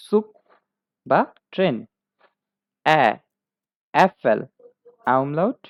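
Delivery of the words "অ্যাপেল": অ্যাপেল loud, with the umlaut sound; German umlaut demo. Shown as a demonstration. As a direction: model অ্যাপেল for learners. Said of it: "এটার pronunciation হবে অ্যা". (উমলাউট উচ্চারণে অ্যাপেল)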